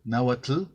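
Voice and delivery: "náhuatl" with a firm tl ending and rising tune; own strong TL pronunciation. Shown as a demonstration. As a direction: demonstrate "náhuatl" closing on a clear tl, no added vowel. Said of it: "la manera en que yo lo pronuncio".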